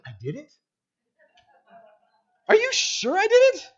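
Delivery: high, falsetto feigned innocence; mock innocence. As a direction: play dumb to the wife, squeaky high. Husband feigns innocence to wife.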